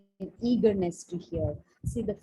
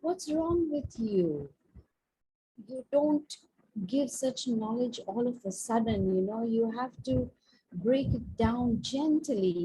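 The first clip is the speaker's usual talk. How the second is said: mock angry yell; 3 semitones higher than usual. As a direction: scold him like a wife who can't believe it. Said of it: "She yelled at him".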